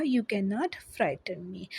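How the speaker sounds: whispered, slow and breathless. Shown as a demonstration. Teacher rereads the mayor's line to her class, whispered. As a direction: breathe the threat out slowly without voice. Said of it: "तो इसको उसने क्या कहा".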